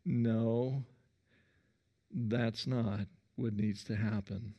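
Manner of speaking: calm loving correction, softening; lovingly. Acted. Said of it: "Jesus very lovingly looks at her and says".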